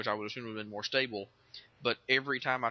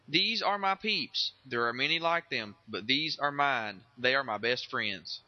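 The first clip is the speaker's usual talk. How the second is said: slow, drawn out; slower than usual. Acted. Recruit line, slow.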